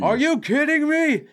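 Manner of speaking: high-pitched incredulous outburst. Real, not acted. Co-host argues over the Olsens' money, high incredulous protest. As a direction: protest in disbelief, pitch shooting up. Mock argument over sisters' earnings.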